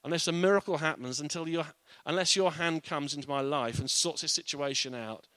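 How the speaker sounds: desperate prayer. Acted. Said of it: "We say".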